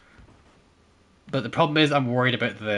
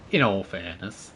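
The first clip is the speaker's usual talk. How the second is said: slow, lower Welsh attempt; imitated Welsh accent; 4 semitones lower than usual. Shown as a demonstration. Gamer asking if it's better, slow Welsh catchphrase. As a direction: draw it out in a careful Welsh accent. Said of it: "Is that better?".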